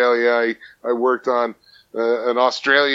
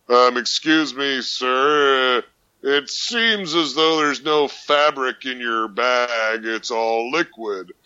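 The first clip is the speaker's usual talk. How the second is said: customs officer; slower than usual. Retold or imitated. Customs officer finds rum bag.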